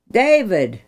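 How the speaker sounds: the king calls out into the night; calling out. Acted. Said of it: "he called".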